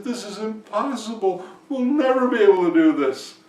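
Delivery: high, mounting panic; despairing husband. A narrator's reading. Vinko despairs to his wife.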